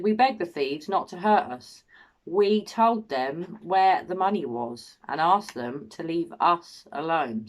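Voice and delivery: slow quote, "we" and "us" picked out; deliberate reading leaning on "we" and "us"; stress on "we" and "us". Retold or imitated. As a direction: point up each "we" and "us". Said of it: "always us and we and we".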